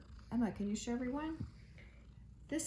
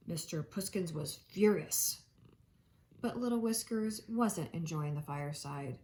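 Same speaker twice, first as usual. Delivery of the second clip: gentle read-aloud storytelling voice; reading aloud to a child at home; storybook narration. A narrator's reading. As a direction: read it like a bedtime picture book. Reading picture book to children.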